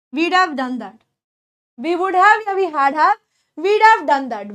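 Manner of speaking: slow careful "we'd have done that" with a clear d in "we'd"; contraction drill. Shown as a demonstration. Teacher drilling students on "we'd have done that", slow and clear. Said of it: "This is how you're going to pronounce these words".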